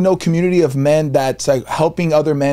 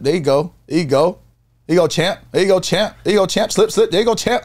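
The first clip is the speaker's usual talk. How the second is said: hype coach building up; 3 semitones higher, faster than usual. Acted. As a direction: rise with every There you go, champ. Coaching a boxing video, rising.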